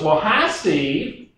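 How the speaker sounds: slow, lightly voiced San Antonio lady; a hint of a friendly Texan caller, drawn out; Barbara from San Antonio. Caller from San Antonio greets Steve, slow and lightly voiced. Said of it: "I'm gonna talk like Barbara for a minute".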